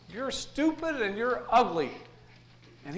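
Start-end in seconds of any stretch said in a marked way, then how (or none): 0.1-1.9 parrot insult. Acted. Parrot insults customer again.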